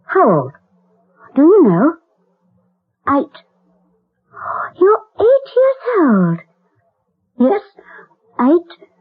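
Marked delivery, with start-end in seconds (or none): 4.8-6.4 slow, high tearful disbelief; tearful dismay. Acted. Lady of the house, stunned at the boy's age, tearful. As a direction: voice catching on the word eight.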